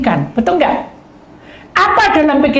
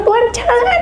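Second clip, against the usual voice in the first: shouting; 13 semitones higher than usual. Retold or imitated. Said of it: "kayak orang teriak-teriak".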